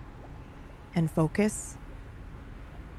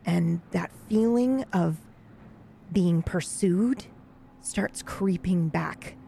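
game master narration. A narrator's reading. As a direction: draw the players into growing dread. GM sets a tense scene.

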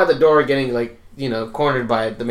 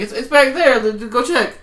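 higher, stammering excuse; flustered shoplifter; 10 semitones higher, 4 dB louder than usual. Retold or imitated. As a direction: fumble an excuse. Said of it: "She's like".

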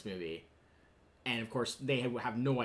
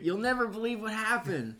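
high-pitched imitated character voice; raised, put-on quote voice; Jack Nance; 8 semitones higher than usual. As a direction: act out the incredulous film line. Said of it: "Jack Nance".

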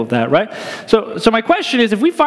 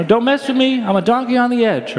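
Donkey quote; 4 semitones higher than usual. Retold or imitated. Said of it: "It's a Shrek reference".

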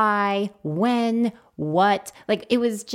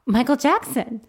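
higher, louder retold kid insistence; exasperated excitement; 4 semitones higher, 6 dB louder than usual. Child reminds mom who's coming to dinner, insistent. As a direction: push the name up high and loud.

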